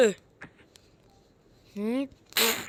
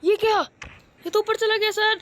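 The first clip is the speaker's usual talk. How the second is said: surprised; 6 semitones higher than usual. Acted. Surprised at flying opponent.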